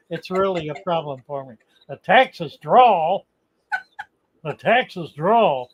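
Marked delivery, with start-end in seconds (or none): 1.9-5.7 Texas drawl. Shown as a demonstration. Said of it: "gotta do it deep".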